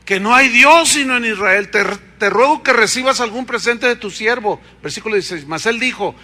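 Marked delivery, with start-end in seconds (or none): 0.0-4.6 awed realization. Retold or imitated.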